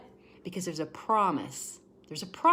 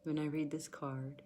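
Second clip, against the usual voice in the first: emotional, near tears; 5 dB quieter than usual. Real, not acted. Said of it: "I'm sorry if I start to cry".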